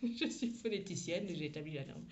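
laughing at her own slip; real laugh running into the words. Real, not acted. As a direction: say it through an amused laugh.

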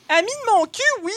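loud, high, scornful comeback; angry cried retort. A narrator's reading. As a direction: throw the insult back at full voice. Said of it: "cria Bigoudi". (réplique criée, indignée)

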